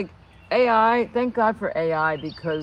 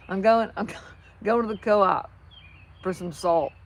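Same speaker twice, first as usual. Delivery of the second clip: Southern neighbor. Retold or imitated. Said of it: "That's what my neighbor said to me".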